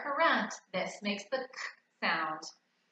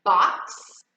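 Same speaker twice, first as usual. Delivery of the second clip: clear naming; 7 dB louder, much slower than usual. Shown as a demonstration. Naming objects for the child.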